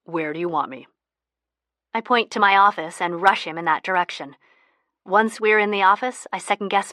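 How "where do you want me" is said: low, steady and unhurried; a man calmly offering to hide. Acted. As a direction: stay completely calm under pressure. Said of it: "he very calmly says".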